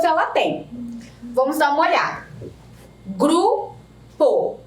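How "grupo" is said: "Grupo" split in two slow beats with a pause; syllable by syllable. Shown as a demonstration. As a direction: sound out "Grupo" one syllable at a time. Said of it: "Basta pronunciarmos a palavra para sabermos quantas sílabas".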